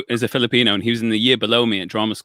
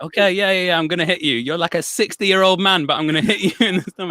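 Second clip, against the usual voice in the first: retold reluctant agreement; 7 semitones higher than usual. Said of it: "And I was just like".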